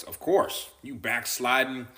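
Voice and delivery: a hint of a scolding revival preacher; lightly mock the finger-wagging altar call; mild hammed-up hellfire preacher; law voice. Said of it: "they're gonna hear the law voice".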